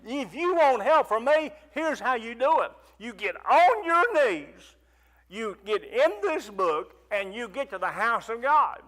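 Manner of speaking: a preacher quoting God with force; voicing God. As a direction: speak as God giving firm instructions. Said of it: "He said".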